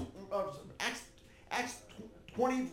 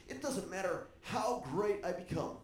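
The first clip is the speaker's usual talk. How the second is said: mildly mopey retold lament, sinking lower and softer; self-pitying; 4 semitones lower, 5 dB quieter than usual. King telling his general why he cries, mildly self-pitying. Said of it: "he's having a pity party".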